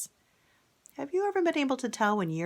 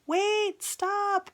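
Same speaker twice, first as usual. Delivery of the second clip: father yelling; 14 semitones higher than usual. Acted. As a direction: yell to the boy in alarm. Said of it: "his daddy's yelling".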